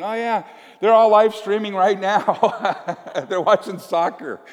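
high, bright cheerful agent voice; chipper Netflix agent. Retold or imitated. Netflix agent telling the couple the news, chipper. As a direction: chirp it like a helpful phone agent. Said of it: "she's going".

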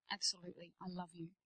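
soft, low, tender reassurance; low-voiced loving assurance; reassuring. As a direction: answer gently and very quietly. Reassuring her son after hug.

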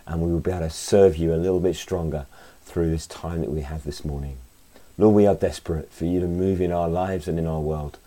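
earnest spoken prayer. Acted. Leads a prayer.

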